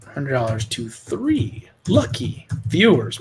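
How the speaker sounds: slow, drawn-out sales pitch voice; infomercial. Pretend. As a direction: announce it like a TV pitchman. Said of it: "Man, I sound like an infomercial".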